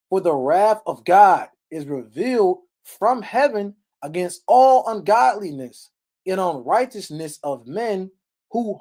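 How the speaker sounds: slow, measured sermon reading of the verse; scripture reading. Acted. Preacher reading Romans to the congregation, measured and solemn. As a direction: read the verse out with weight.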